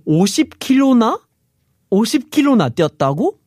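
high, fast, gasping disbelief; gasping surprise. Retold or imitated. Friend hears of fifty kilometers, gasping in surprise. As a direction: gasp then blurt it out amazed.

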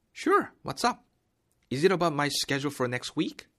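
bright high "Sure" then slow clear question; upbeat textbook role read; cheerful coworker. Shown as a demonstration. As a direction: play the eager employee. Role B dialogue, bright start.

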